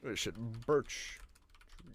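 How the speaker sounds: a slow hushed marvel at a tree; hushed awe. Pretend. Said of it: "self-quote, hushed".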